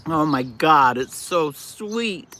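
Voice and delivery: talking while chewing; words round a bite of orange; mouth full. Real, not acted. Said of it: "Don't talk with your mouth full".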